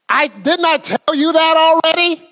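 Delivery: mock impatient nagging at a spouse; exasperated husband. Husband snapping at his wife mid-apology, exasperated. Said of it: "none of y'all talk like that".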